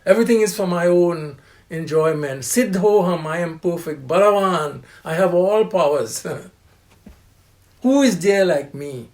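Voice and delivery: proud, loud bragging; mock arrogant braggart; arrogant boast. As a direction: crow like a man who thinks he is God. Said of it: "The arrogant person".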